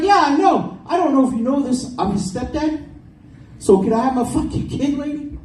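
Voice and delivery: his own voice pushed way up; high-pitched self impression. Comic retelling his school pickup, squeaky high self voice. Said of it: "It's like three octaves higher".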